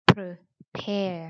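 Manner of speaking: prepare split as pruh, PAIR; syllable by syllable. Shown as a demonstration. Teacher breaks the word down for students, prepare as pruh... pair. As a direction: break prepare in two, short neutral first vowel. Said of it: "อ่านว่า pre".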